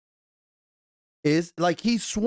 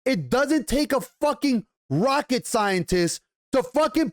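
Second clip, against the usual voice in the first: real rage; 5 semitones higher than usual. Real, not acted. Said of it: "Get fucking ready for the fucking rage".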